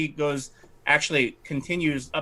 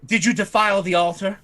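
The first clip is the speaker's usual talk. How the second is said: a slightly raised, haughty lady's voice; fussy noblewoman; 5 semitones higher than usual. Acted. Lightly raised voice as the lady fretting to the party about her estate. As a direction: play the put-upon aristocrat lamenting her estate. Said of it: "she says".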